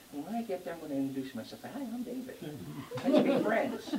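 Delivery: mock friendly. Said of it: "You think he".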